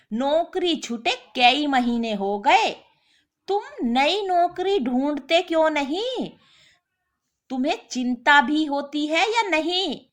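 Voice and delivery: fed-up wife scolding her jobless husband. Acted. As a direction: taunt him, then demand answers.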